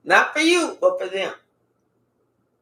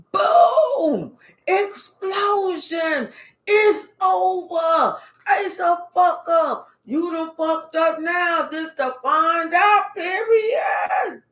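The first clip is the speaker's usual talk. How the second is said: excited; 4 semitones higher, slower than usual. Acted. Hyped tarot reveal, exclamations.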